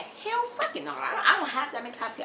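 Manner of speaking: incredulous laugh, then words; laughing scoff. Real, not acted. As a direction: laugh it off in disbelief. Scoffs at begging mentality.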